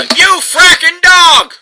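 furious slowed shout; real angry yell. Real, not acted. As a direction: let the gamer's frustration out on the mutt. Yelling at the game dog.

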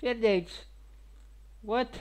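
high-pitched mock Russian accent; fake Russian accent. Streamer throws out a word to viewers, fake Russian accent. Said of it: "that's a fake Russian accent".

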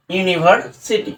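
"ইউনিভার্সিটি" slow, divided as ইউনি, ভার, সিটি; in three parts. Shown as a demonstration. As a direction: sound out "ইউনিভার্সিটি" slowly, piece by piece. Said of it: "তিনটি ভাগে আমি কি করলাম". ("ইউনিভার্সিটি" তিন ভাগে, ধীরে)

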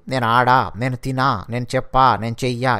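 low-pitched list of slang forms "ఆడా, తినా, చెప్పా, చెయ్యా"; Akhil's slang endings. Retold or imitated. Retelling a housemate's slang, verbs like "ఆడా" cut to a long ఆ ending. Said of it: "అఖిల్కి ఒక slang ఉంది".

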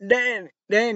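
loud angry call; yelling a name. Real, not acted. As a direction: bellow his name at the screen. Yelling at Dan on screen.

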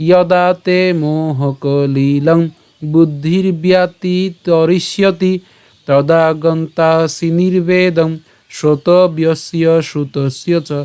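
slow, even-toned chant of a shloka; Sanskrit verse recitation. Shown as a demonstration. Teacher showing how to recite from the start, slow even chant. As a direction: chant it steadily, long vowels drawn out. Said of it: "পাঠ করি তাহলে কেমন হবে".

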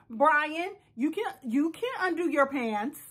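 mild nurse coaxing a patient; patient-talk voice. Acted. Nurse telling Brian he can undress himself, lightly coaxing. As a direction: gently coax him along. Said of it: "talk to him like a patient".

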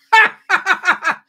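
a burst of high, loud laughter. Real, not acted. Laughs at own joke.

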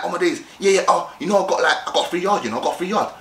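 mildly hammed-up eagerness; mock eager. Mock guy showing off to a girl, eager. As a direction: babble keenly, repeating yourself. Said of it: "come across as an eager person".

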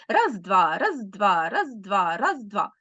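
steady two-beat count, "раз, два", with regular swings in pitch; march count. Shown as a demonstration. Teacher showing pupils a march tempo on "раз, два". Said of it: "такт буде наче марш".

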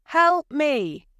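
loud, high desperate call; calling for help. A narrator's reading. Wife calls to husband for help, loud and desperate. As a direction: plead for help from afar. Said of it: "she called to her husband".

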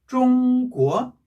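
"중국어" said as Chinese zhōngguó, high level then rising; first-second tone. Shown as a demonstration. Teacher drilling the pattern, "중국어" level then rising. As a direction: slowly hold "중" high, then lift "국어". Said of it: "일 성, 이 성일 때는".

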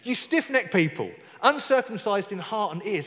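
brisker, mildly combative rebuke; fighting talk. Acted. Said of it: "That's fighting talk, isn't it?".

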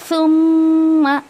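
सुम्मा drawn out slowly and loud, with a long माँ; wrong reading. Shown as a demonstration. Teacher shows students the wrong मा. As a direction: stretch the माँ in सुम्मा as the mistake. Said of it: "माँ ऐसे नहीं करना है".

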